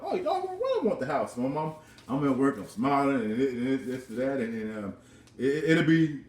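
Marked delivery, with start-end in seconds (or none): 0.0-1.3 excited outburst. Retold or imitated. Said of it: "I'm like".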